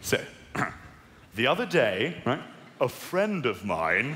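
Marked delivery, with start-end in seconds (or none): 2.8-4.1 slow, deliberate, lower emphasis; knowing cover-up. Pretend. Comic telling his agreed cover story, slowly and pointedly. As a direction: spell out the alibi for the crowd.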